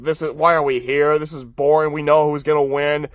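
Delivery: lightly voiced boredom, low pitch; mildly weary, let the pitch sag; imitating bored commentators; bored announcers. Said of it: "like, yawning 'cause they're like".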